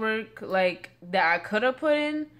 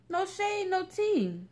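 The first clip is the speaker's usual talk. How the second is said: sassy no shade; 12 semitones higher, slower than usual. Real, not acted. Sassy catchphrase.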